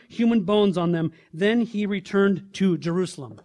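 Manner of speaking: steady, continuous public Bible reading; scripture reading. Acted. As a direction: read the passage aloud with firm, measured emphasis. Reads scripture aloud to congregation.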